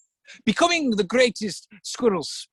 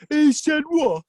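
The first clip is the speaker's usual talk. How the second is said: higher, indignant repeat in disbelief; outraged snake; 8 semitones higher, 4 dB louder, slower than usual. Acted. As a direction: explode with offended disbelief.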